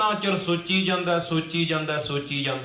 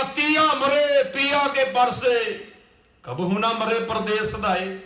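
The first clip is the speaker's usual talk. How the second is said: slow declaimed riddle verse; poem recitation; 3 semitones higher, slower than usual. Acted. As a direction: open high and stretch the words. Poet recites his riddle verse.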